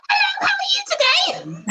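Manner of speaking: high, breathy-laughing sultry greeting; sensual whisper. Shown as a demonstration. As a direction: purr it close to their ear. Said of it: "you whisper in their ear".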